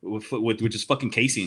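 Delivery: retelling an annoyed argument; retold indignation. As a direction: fire off an exasperated challenge. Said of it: "low-key kinda fucking pissed off".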